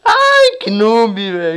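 giggling at the noob; laughing squeal. Real, not acted.

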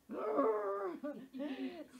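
high, drawn-out mock sob; mock wail. Frustrated speaker caps her plea to corporate, mock wail. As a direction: burst into a comic wordless wail. Acting out her tearful pleading.

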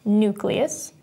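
"nucleus" with the weight on "nu"; strong "nu", lighter "cleus" in "nucleus"; stress on first syllable. Shown as a demonstration. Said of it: "stresses the first syllable".

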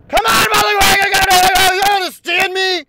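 very high, loud raging shriek; enraged screaming. Real, not acted. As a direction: scream at the game in a fit of rage. Screaming at the game.

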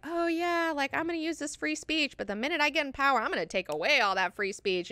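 mock smug extremist. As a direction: sneer it like a two-faced zealot. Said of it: "people that are like".

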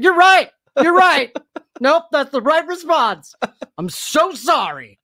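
falling apart on stage; mock crying. Pretending to bomb at stand-up, hammed-up teary apology. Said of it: "I'll just start crying".

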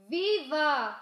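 a loud, high cheer; cheering shout. A narrator's reading. Salon ladies cheering as Mama traps the chicken, loud. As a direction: cheer the catch. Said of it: "shouted the ladies".

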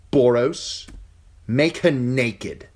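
high, slow, drawn-out order; cold command. Acted. King instructing his knight, slow and high. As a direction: command it coldly, savouring it.

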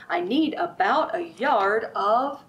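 slow, loud teasing build-up to the next colour; slow, loud picture-book pause before the answer; storybook read-aloud. Acted. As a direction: hold it back so the kids can guess. Reads picture book to children.

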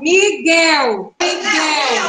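"Miguel" drawn out in two parts, twice; syllable by syllable. Shown as a demonstration. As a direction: sound out "Miguel" for the class. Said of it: "a sílaba mais forte?". ("Miguel" esticado, sílaba por sílaba)

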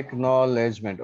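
each syllable of Acknowledgement separated. Shown as a demonstration. Teacher showing the syllable count, syllable-by-syllable. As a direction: sound out Acknowledgement slowly in beats. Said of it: "একনলেজমেণ্টত চাৰিটা আছে".

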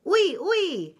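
high, loud poodle chirp; French poodles. A narrator's reading. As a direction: pipe it up eagerly as French poodles. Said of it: "said Z Poodles".

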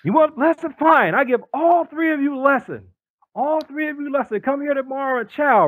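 high, clipped broken-English challenge; Korean-accented yell. Retold or imitated. Min challenging all three recruits, Korean-accented yell. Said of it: "he's yelling up at me".

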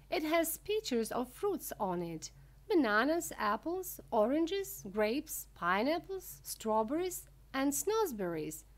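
high, enthusiastic showman listing his wonders; Mister Wonka, excited. Acted. Wonka showing off his wallpaper fruits, high and excited. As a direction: list each one brightly, pitched high.

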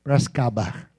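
low-pitched Piracicaba caipira imitation; clipped "P'rascaba" local accent. Shown as a demonstration. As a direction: swallow the syllables like a Piracicaba local. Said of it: "Você viu como ele fala?".

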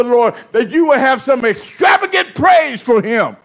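fervent preaching. Real, not acted. Preacher defends exuberant praise to the congregation, fervent preaching. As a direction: preach it with rising fervor.

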